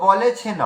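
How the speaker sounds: বলে ছে ন as baw-le-chhe-naw; spelling pronunciation. Shown as a demonstration. Teacher giving the literal result, Sanskrit-style pronunciation. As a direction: sound the open vowel in ব and final ন of বলে ছে ন. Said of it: "উচ্চারণটা এলো".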